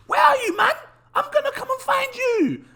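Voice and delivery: high, put-on London accent threatening to find him. Scammed investor threatens the anonymous developer in a mock London accent. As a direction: play a hammed-up London geezer hunting the dev. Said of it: "Trying to be proper like London".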